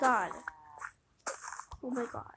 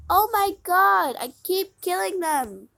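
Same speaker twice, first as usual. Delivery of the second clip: slow, louder despairing groan; loud despairing wail; 7 semitones higher, 11 dB louder, slower than usual. Real, not acted. Player groaning at killing animals again. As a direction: moan it out in despair.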